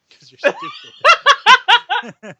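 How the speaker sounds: squeaky high laughing taunt. Real, not acted.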